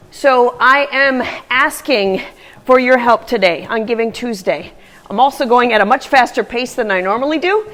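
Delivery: slightly out of breath; talking while out of breath running. Real, not acted. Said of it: "so I'm a little out of breath".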